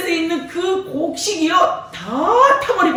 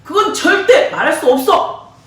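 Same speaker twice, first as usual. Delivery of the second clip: firm refusal; 5 dB louder than usual. Acted. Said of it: "하지만 삼손".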